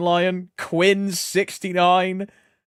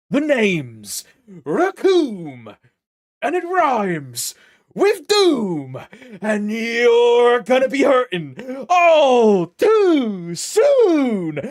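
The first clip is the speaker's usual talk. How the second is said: slow, higher, louder cartoon villain boast; hammed-up villain intro; 5 semitones higher, 9 dB louder, much slower than usual. Streamer hamming a villain's rhyming intro, slow and loud. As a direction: announce yourself like a Saturday-morning baddie.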